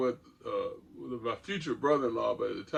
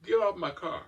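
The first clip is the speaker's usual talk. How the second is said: a cool threat to a stranger; calm warning; 6 semitones higher than usual. Retold or imitated. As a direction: state it calmly, no heat. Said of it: "Just as calmly as possible".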